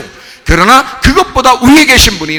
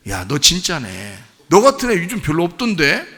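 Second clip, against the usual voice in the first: impressed realization; 3 semitones lower, 5 dB quieter than usual. Acted. Companion impressed by genuine faith. (낮고 느리게 감탄하는 말투)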